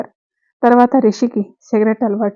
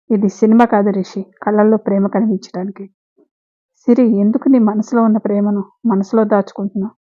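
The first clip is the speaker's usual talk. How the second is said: story narration. A narrator's reading. Host reading the episode to viewers, calm narration. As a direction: read the story steadily to listeners.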